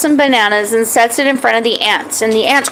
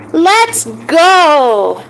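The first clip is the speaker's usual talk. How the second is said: excited shout; 5 semitones higher than usual. Acted. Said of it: "Maggie got more excited".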